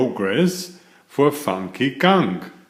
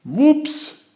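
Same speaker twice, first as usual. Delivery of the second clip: giggling. A narrator's reading. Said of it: "he giggles".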